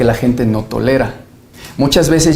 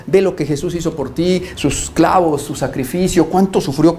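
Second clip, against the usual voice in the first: earnest pleading, urging someone to believe; súplica ferviente; 3 semitones higher than usual. Acted. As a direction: implore them, building through a list. Ruega a la gente que crea. (ruego sincero y ferviente)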